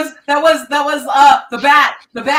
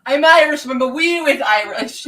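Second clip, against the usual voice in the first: put-on Irish accent; 3 dB louder than usual. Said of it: "when I do this accent".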